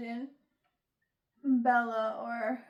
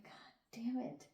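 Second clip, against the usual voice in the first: frustrated mutter; 11 dB quieter than usual. Pretend. Frustrated imagined outburst.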